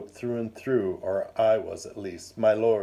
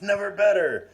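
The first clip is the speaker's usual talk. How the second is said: much higher, louder exultant repeat; rising jolly cry; 10 semitones higher, 5 dB louder than usual. A narrator's reading. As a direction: top the first one, giddy and booming. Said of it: "He laughed something shocking".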